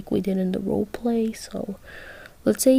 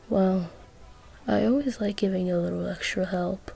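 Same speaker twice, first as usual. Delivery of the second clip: low pitched voice; 7 dB quieter than usual. Acted. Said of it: "You said in a low pitched voice".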